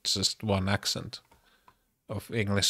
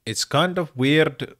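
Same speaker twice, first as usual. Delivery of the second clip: slow, higher Finnish-accented delivery; attempted Finnish accent; 6 semitones higher, 4 dB louder, slower than usual. Shown as a demonstration. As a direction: try a deliberate Finnish accent, slowly. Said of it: "I'm trying to do the Finnish accent".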